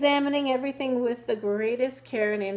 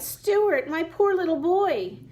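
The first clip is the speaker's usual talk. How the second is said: anxious mother; 7 semitones higher, 4 dB louder, slower than usual. A narrator's reading. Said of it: "she cried".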